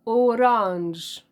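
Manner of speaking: أورانج drawn out slowly, French style oh-RANZH; teacher models أورانج slowly as French orange. Shown as a demonstration. Teacher to students, modeling French orange slowly. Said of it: "النطق هو اللي بيتغير".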